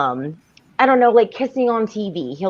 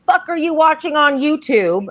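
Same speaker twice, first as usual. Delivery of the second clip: high-pitched mock disbelief; incredulous retold question, pitched way up; shocked parent; 8 semitones higher than usual. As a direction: act out an appalled inner reaction. Mother's shocked first thought, retold.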